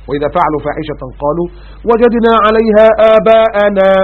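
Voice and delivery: slow, drawn-out melodic recitation; Quranic recitation. Acted. Preacher reciting the verse to the congregation, slow melodic chant. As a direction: chant the verse slowly, stretching each word.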